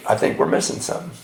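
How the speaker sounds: fast, soft whisper. Retold or imitated. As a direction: whisper it to yourself. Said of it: "And I said".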